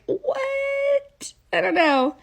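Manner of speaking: put-on high, squeaky baffled kid voice; confused squeak. A baffled ten-year-old watching bodies vanish, squeaky and high. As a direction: go way up, totally baffled.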